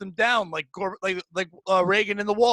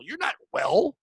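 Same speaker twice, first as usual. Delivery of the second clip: exasperated shout; 5 semitones higher, slower than usual. Real, not acted. Ranting at Facebook advice-givers.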